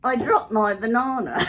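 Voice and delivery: squeaky ventriloquist dummy. Acted. Monkey drops banana.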